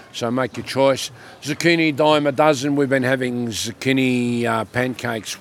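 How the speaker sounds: normal talking voice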